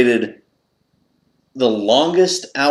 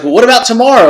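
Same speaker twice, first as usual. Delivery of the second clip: a hint of the wife, higher and louder; hopeful suggestion, lightly mimicked; lightly voiced wife; 10 semitones higher, 5 dB louder, much faster than usual. Wife offering a way out, a light higher mimic. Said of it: "And she's like".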